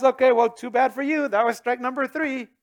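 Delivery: a hint of a dismissive brush-off; mock dismissive. Jesus pretending to give up on sinners, mock dismissive. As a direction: toss it off like a fed-up umpire. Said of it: "it's not like Jesus says".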